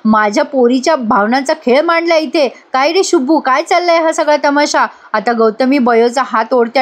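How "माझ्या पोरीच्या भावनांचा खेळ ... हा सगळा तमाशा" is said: higher-pitched mock indignation; mildly acted annoyed questioning; retold annoyance. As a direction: demand answers crossly, keeping it light. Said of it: "Gautami चिडते आणि म्हणते".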